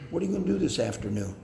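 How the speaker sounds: fast, easy, friendly ask; friendly question. Shown as a demonstration. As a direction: ask it lightly and kindly. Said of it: "rather than".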